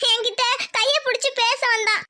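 tearful, sobbing confession; crying. Acted. Daughter tells mother he grabbed her hand, crying. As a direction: force it out through sobs. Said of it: "சரி அழாதடி".

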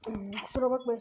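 unvoiced, whispered apology; rough voice apology. Real, not acted. Apologizing to viewers for his bad voice, whispered. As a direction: excuse yourself in a failing whisper. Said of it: "sesim götümden çıkıyor".

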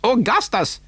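high cry of alarm; agitated cry. A narrator's reading. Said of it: "cried Mister Wonka".

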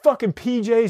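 retold frantic yelling. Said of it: "is screaming, and he's crying".

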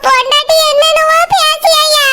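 tearful, wavering complaint; crying. Acted. Mother complaining to her son about his wife, crying. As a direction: complain through tears. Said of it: "ஏம்மா அழுதுட்டு இருக்கீங்க?".

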